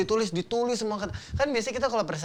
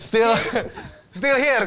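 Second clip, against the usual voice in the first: excited; 7 semitones higher, 8 dB louder, much slower than usual. Real, not acted. Relieved at passing exam.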